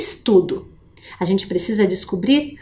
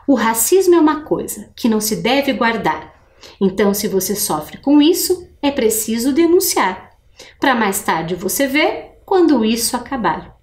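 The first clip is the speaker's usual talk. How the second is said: reading aloud. Shown as a demonstration. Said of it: "eu vou ler de novo".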